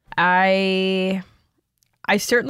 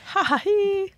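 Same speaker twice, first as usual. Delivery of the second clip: staccato mock laugh; 13 semitones higher, slower than usual. Shown as a demonstration. Mimicking Shakespeare's staccato laugh.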